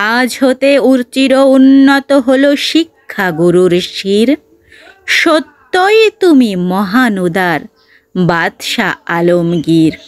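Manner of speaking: exultant proclamation. Acted. Teacher saluting the emperor with pride, mildly exultant proclamation. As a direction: proclaim it proudly, slowing on the final name. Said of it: "কহেন উচ্চ রবে".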